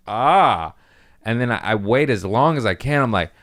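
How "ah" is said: imitated drawn-out "ah" of pain; retold pain cry. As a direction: act out a short pained cry.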